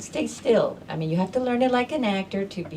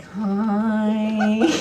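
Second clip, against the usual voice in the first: bright hello; 4 semitones higher, 5 dB louder than usual. Retold or imitated. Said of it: "She's like".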